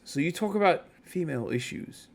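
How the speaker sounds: bellboy's hushed, probing question, imitated; quiet aside. Bellboy turning round to a streamer in the lobby, imitated quiet aside. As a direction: drop the voice to imitate a discreet question. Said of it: "a little bit quietly, he goes".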